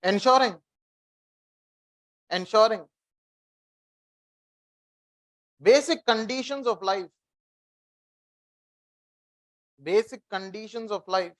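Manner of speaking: slow, even dictation pace for note-taking. Shown as a demonstration. Teacher dictating a line to students, slow and measured. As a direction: spell it out slowly so they can write. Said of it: "Ah, write down one line".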